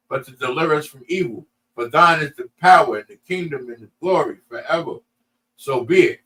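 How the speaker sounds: phrase-by-phrase Lord's Prayer with lifted cadence; measured liturgical delivery, pausing after each phrase; prayer recitation. Real, not acted. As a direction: recite it as a practised congregational prayer.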